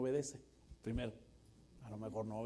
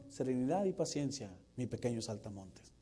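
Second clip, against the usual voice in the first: Calimán quote; 2 semitones lower than usual. Retold or imitated. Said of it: "Este Calimán".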